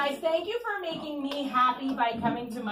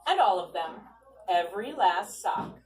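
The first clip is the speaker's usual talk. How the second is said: put-on louder, lively read-aloud to kids; storybook reading; 3 dB louder, slower than usual. A narrator's reading. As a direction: read it to a circle of children. Reading picture book aloud.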